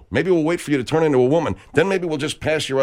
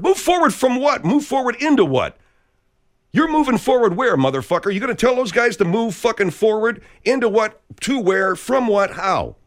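incredulous rant; 6 semitones higher than usual. Real, not acted. Ranting at Twitter critics.

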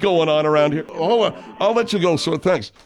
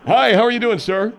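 mouth full; 6 semitones higher, 4 dB louder than usual. Acted. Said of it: "You got a mouthful of bologna".

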